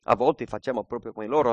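ordinary delivery

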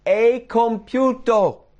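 loud, high, drawn-out shout; triumphant cry. Acted. Jesus on the cross before giving up the spirit, loud cry. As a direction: cry out slowly at full voice. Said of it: "dice quello che gridò".

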